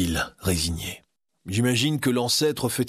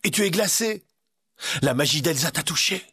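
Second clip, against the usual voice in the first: urgent alarmed cry, a bit higher; alarmed, rushing to Anna; cried out; 4 semitones higher than usual. Acted. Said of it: "Christophe s'écria". (cri alarmé et pressé)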